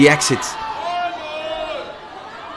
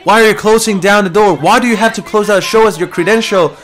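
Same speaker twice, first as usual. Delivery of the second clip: mild mock yell; 5 semitones higher than usual. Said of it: "they're yelling at him".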